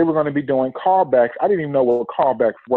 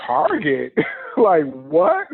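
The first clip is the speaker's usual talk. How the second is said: surprised disbelief; much slower than usual. Retold or imitated. Text about Target callback.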